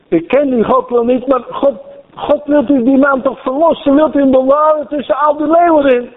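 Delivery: a king praying anxiously for his friend; pleading king. Retold or imitated. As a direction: beg God as the anxious king. Voicing the king's prayer.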